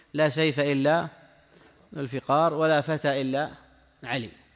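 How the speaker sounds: ordinary talk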